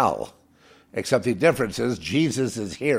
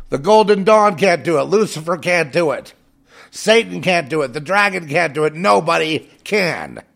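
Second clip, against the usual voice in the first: forceful preaching; 4 semitones higher, 5 dB louder than usual. Real, not acted. Listing failed powers, preaching.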